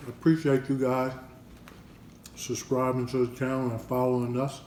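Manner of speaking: talking with a mouth full. Real, not acted. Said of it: "Excuse me if I'm eating with my mouth full".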